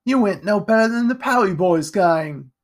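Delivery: high, loud, hurt defiance; angry retort. A narrator's reading. Jack, knocked down by Edgar, retorts angrily. Bleeding boy hits back in words.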